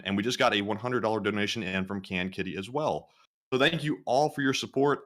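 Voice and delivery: winded after a long list of names; puffing after reading nonstop; out of breath. Real, not acted. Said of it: "I am out of breath from reading off all those names".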